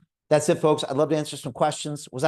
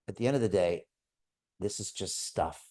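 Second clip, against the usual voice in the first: calm fatherly reassurance; 4 semitones lower, 5 dB quieter than usual. Retold or imitated. Father calming upset sons, retold.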